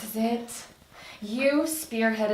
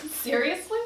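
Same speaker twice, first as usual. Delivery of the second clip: laughing; 7 semitones higher than usual. Acted. Laughs at bourbon offer.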